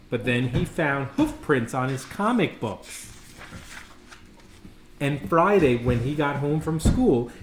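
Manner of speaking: put-on lively read-aloud for kids; animated storyteller voice; storybook reading. A narrator's reading. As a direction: tell it like a bedtime picture book. Reads picture book aloud.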